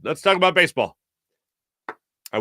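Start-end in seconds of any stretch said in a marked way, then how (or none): 0.0-1.0 a hint of a gruff old broadcaster, louder; Harry Kalas. Old announcer ribbing the nervous kid, lightly voiced. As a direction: tease the nervous kid affectionately. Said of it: "caught my nervous sweats and went".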